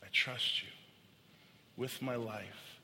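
soft, slowing declaration of faith; quiet, sincere trust. Acted. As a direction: let it settle softly, like a prayer. Closing words of trust to God.

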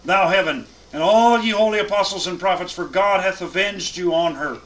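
preacher reading a joyful verse aloud; proclaiming scripture. Acted. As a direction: proclaim it out to the room.

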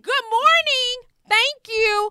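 high, loud, slow sarcastic politeness; sugar-coat it with sarcasm; mock-polite, high and loud; fake-sweet reply. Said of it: "I said".

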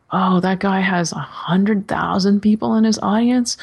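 unvoiced whisper of worry; whispered doubt. Telling the host her insecure thought, whispered. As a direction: whisper it like a secret fear. Retold anxious inner thought.

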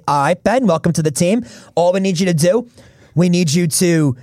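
badly faked Australian team boss; half-hearted Australian accent, giving a player simple instructions; poor Australian accent. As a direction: do a weak Australian accent, pitched a touch up. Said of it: "That's my poor Australian accent from Sean Marks".

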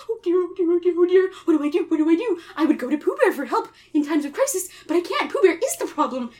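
high, fretful little pig voice; shivering Piglet. Acted. Piglet hides under his cover, shivering and fretting. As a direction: fret in a rapid, repeating panic. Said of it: "shivers and goes".

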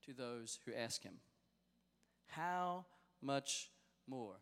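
solemn sermon reading; scripture reading. Acted. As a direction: read the verses with weight. Reads scripture from the pulpit.

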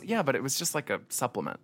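vocal fry. Retold or imitated. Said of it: "best Camille impression".

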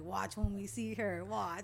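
loud, slow, pumped-up warning; hyped threat. Retold or imitated. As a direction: drag it out, all hyped. Hyped up about a girlfriend.

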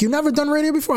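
a hint of the brash boss; lightly voiced radio boss. Imitating radio owner.

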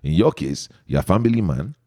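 playfully exaggerated Igbo accent. Host poses the segment's question to his guest, Igbo accent. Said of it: "And so I super emphasize it".

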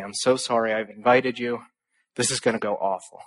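quietly fretting, mildly imitated; worried student apologizing by email, lightly nervous; nervous apology. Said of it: "the very nervous two or three conservatives".

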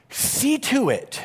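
measured admonition, pausing after the opening words; stern warning. Acted. Preacher reading Jesus' words to the congregation, as a stern warning. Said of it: "in the context of a stern warning".

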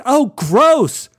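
high, loud disgusted shriek. Retold or imitated. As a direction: squeal it out in disgust. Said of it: "Virginia shrieked".

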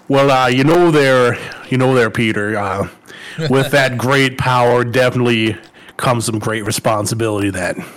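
a hint of Minnesota, easygoing Midwestern lilt; Spider-Man line in a mild Minnesota accent. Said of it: "You do such a good job at the Minnesota".

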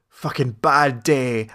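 slow, low, bored delivery; deadpan line. Retold or imitated. Character walks out after execution, deadpan. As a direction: shrug it off slowly and flatly.

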